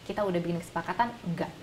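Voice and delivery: quiet-toned, firm acted no; composed mother standing by the agreement; firm refusal. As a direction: say no firmly, with no rise in intonation. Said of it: "Cukup dengan tegas bilang".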